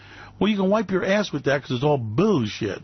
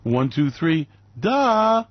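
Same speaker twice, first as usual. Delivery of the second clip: mocking countdown; much slower than usual. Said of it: "And go".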